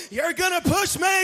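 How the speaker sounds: mock disabled friend. To the friend about to push him, a whining mock voice. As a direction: whine it like a scared friend who spots you.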